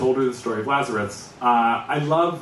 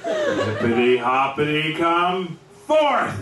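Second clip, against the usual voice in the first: tearful, slower pleading call; tearful plea; 3 semitones higher, slower than usual. Retold or imitated. Daughter begging the dead frog to rise, tearful plea. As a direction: plead through welling tears. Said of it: "Really giving it her all, passionate".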